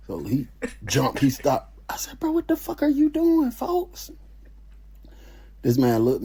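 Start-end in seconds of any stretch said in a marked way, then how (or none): 2.2-4.1 urgent unvoiced whisper of disgust; horrified whisper. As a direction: hiss it in disbelief. Shocked at roommate's toothbrush.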